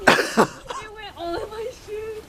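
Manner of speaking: laugh-crying. Real, not acted. Snow in her shoes.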